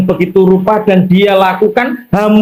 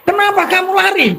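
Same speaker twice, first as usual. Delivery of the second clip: mbok memanggil; 11 semitones higher than usual. Acted. Mbok memanggil yang lari.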